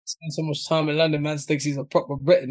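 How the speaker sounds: put-on playful London English accent. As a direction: slip into London British slang. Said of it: "your switch into the U K accent was so natural".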